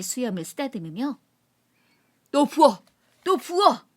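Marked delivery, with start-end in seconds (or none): 2.3-3.8 put-on loud, rising drunken call; shouting for more. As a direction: bang the table for another. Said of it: "라고 외쳤다". (술 더 부으라고 크게 외침)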